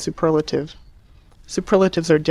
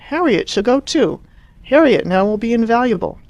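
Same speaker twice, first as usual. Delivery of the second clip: excited; 6 semitones higher, 4 dB louder than usual. Acted. Mother seizing new plan.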